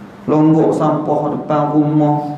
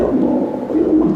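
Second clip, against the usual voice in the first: mock crying; faster than usual. Shown as a demonstration. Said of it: "maka buat-buat teriak".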